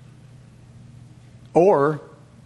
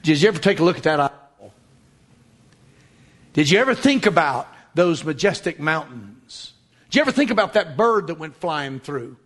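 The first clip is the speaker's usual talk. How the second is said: gentle questioning. Acted. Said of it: "God would say".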